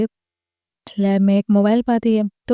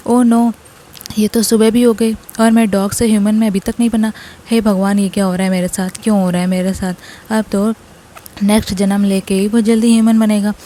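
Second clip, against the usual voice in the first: loud, wailing lament without real sobs; crying; 4 dB louder than usual. Acted. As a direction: wail it out loud, hammed-up despair. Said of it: "तो जिरान रोते हुए कहता है". (ऊँची आवाज़ में नाटकीय रोना)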